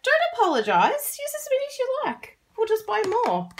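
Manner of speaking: high-pitched, airy dismissal of an apology; breezy retold reassurance. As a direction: wave the apology away in a high voice. Retells waving away an apology.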